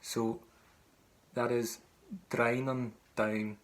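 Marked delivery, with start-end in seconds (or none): 2.3-3.6 "Drown on Down" spoken slowly in her Irish; Irish pronunciation. Shown as a demonstration. Teacher saying the name the way she says it. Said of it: "That's just the way that I'd say it in my Irish".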